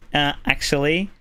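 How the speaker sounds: put-on a touch of Valley Girl, lifting at the end. Shown as a demonstration. Streamer explaining what the trigger phrase does, mild Valley Girl voice. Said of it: "the very stereotypical Valley Girl voice".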